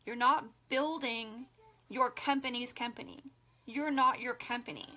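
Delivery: gently, like a caring friend breaking hard news; most loving voice. Real, not acted. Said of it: "most loving voice".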